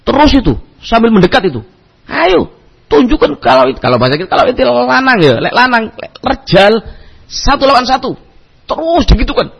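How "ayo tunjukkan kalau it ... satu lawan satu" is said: retold challenge shout.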